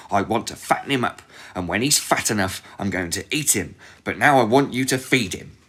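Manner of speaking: loud, harsh witch bark; yelling witch. Acted. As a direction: boss her around with a yell. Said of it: "she shook Gretel and yelled".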